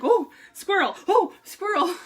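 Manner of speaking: mock-dazzled squirrel call; a hint of being easily distracted; lightly distracted. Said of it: "I'm like".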